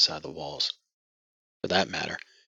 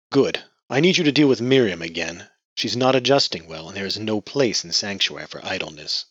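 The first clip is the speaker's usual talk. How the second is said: commanding patriarch; 5 dB louder than usual. Acted. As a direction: order her about coldly. Patriarch gives orders.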